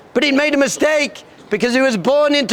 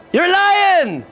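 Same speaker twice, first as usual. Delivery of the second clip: higher, emphatic declaration; insistent; 4 semitones higher, slower than usual. Acted. Lion King tells his son who he is, insistent. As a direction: press the truth on him, pitched up.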